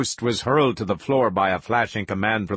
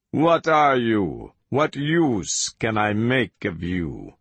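lightly voiced villain, deliberate and insistent; measured demands with emphatic peaks; commanding interrogator. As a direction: press the captive to give in.

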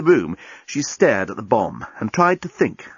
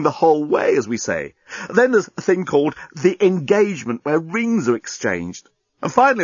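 lively, higher-pitched lightly voiced alien; alien journalist, eagerly explaining; 6 semitones higher than usual. Alien journalist explaining mating rituals to Lucy, animated. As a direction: explain your planet's customs with animated emphasis.

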